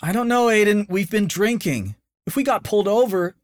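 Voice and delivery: high, worried warning; cautious girlfriend. A narrator's reading. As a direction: gently hold him back. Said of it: "cautioned Aiden's girlfriend".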